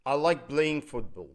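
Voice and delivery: very slow, clearly spaced words; slow English example. Shown as a demonstration. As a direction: model the sentence slowly for students. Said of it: "وليكن جمله مثلًا زي". (نطق بطيء وواضح للمثال)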